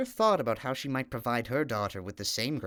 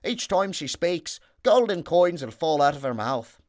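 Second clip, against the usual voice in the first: little man; 6 semitones higher, 7 dB louder than usual. Acted. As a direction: grant the gift like a small enchanter. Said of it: "said another of the little men".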